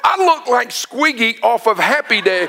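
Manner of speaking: high, laughing confession. Real, not acted. Pastor laughing at looking like Squiggy, laughing. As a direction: giggle through it. Laughing at his own look.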